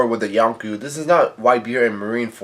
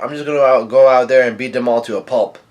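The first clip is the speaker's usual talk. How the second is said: louder, lively mock shout; raised-voice retelling; Luffy's retold yell; 5 dB louder, faster than usual. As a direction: act out a fighter's outburst, half-shouted. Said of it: "Luffy yells out".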